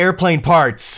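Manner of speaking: high, loud, drawn-out exclamation; excited outburst. Acted. Fads leans in to the others, an excited outburst. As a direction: blurt it out slowly and high.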